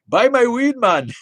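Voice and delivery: high, loud Jamaican holler; imitated Jamaican yell; Jamaican roadside seller. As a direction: shout it like a Jamaican hawker jumping out at a truck. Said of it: "some dude just, like, leaping out".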